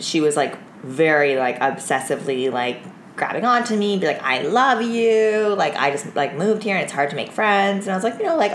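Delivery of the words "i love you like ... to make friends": put-on slow, high, clingy drunk voice. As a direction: drag it out like a needy drunk.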